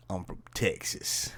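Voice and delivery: put-on a flat, whispery try at Valley Girl; a Valley Girl line that doesn't land; butchered Valley Girl. Shown as a demonstration. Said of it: "Kinda butchered that".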